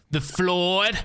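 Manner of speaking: put-on slow Southern US accent, leaning on Floyd; Southern cop accent. Streamer introduces her old GTA roleplay cop in a Southern accent. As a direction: drawl the name like a Southern lawman. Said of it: "which is who you're hearing right now".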